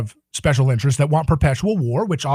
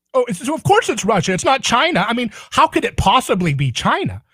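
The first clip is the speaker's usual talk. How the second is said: sarcastic; 6 semitones higher than usual. Retold or imitated. Sarcastic mock disbelief.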